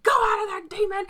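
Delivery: high-pitched imitated exorcist's command; shouting at demon. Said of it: "just shouting at the demon".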